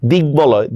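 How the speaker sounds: দিগ্বলয় as "dig-boloy"; sounded b. Shown as a demonstration. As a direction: keep a clear b after g in দিগ্বলয়. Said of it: "বফলার উচ্চারণ বহাল থাকে".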